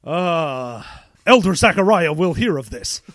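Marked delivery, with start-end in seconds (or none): 1.3-3.0 stern Puritan elder. Pretend. Threatening Puritan voice.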